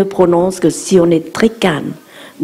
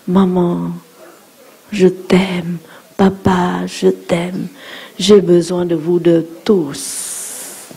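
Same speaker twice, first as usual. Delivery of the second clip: put-on tender child; slower than usual. Shown as a demonstration. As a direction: say it tenderly, slowing at the end. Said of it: "on dit". (tendre, doux, plus lent à la fin)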